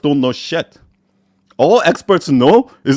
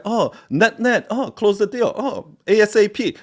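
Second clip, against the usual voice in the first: high, soft mock office voice; put-on business-lingo voice, pitched up; fake professional; 9 semitones higher, 4 dB quieter than usual. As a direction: parody someone trying to sound professional. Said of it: "try to sound fucking professional".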